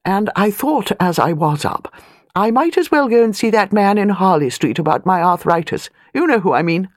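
put-on an old lady of rank, talking down a little; airy grande dame, lightly done; lightly voiced imperious old lady. Elderly aristocrat voiced.

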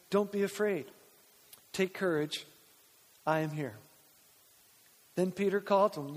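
measured, solemn Bible reading; scripture reading. A narrator's reading. Pastor reading the Gospel to congregation, measured scripture reading. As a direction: read the passage aloud with deliberate pauses. Reads the Bible passage aloud.

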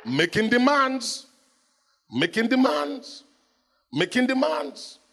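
high, slow, insistent repetition; the law as a nagging husband. Acted. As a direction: press the demands again and again. Law voiced repeating demands.

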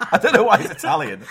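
giggling aside; laughing. Real, not acted. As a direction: laugh through it.

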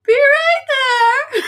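tiny high voice from behind a door; squeaky little voice; twinkling breathy fairy whisper. Acted. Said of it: "No, that was good".

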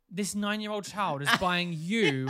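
slow, laughing incredulity; half-laughing at the absurd claim; laughing disbelief. Retold or imitated. Teller to the lying mum, laughing disbelief.

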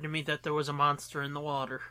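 fast hushed whisper. Real, not acted. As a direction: breathe it like a secret. Ominous aside about monsters.

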